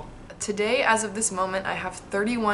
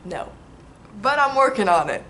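excited; 2 semitones higher, 9 dB louder than usual. Real, not acted. Laughing answer.

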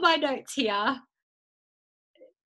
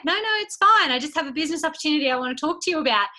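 eager caller; 2 semitones higher, faster than usual. Retold or imitated. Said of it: "Maddie might be like".

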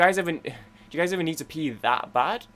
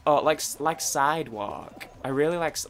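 hammed-up American accent; bad American accent. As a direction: imitate a girl putting on an American accent. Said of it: "like, her American accent".

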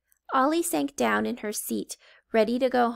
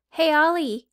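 calling out; 6 semitones higher, 6 dB louder than usual. Acted. Coco calls to Ollie.

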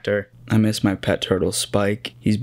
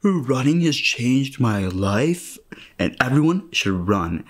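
mock enthusiast; 3 semitones higher, slower than usual. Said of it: "I know people say".

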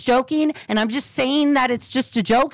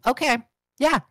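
curt sarcastic agreement; 2 semitones higher than usual. Real, not acted. Answering someone who claims good intentions, sarcastic. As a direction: pretend to accept it, sarcastically. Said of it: "That was the most sarcastic way".

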